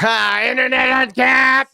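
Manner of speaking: high, slow hype call; excited shout-out. Real, not acted. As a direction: hype up a channel name. Streamer shouts out a viewer.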